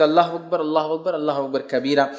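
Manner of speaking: measured, devout chanting of the takbir; takbir recitation. Shown as a demonstration. Teacher showing listeners the Eid takbir, devout chant. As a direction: recite each Allahu akbar steadily, as in the mosque. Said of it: "یہ بھی ثابت".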